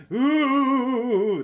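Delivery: high, loud ghostly ooh; a rising haunted-house ooh; spooky ooh. Pretend. Streamer hamming up a ghost ooh for viewers.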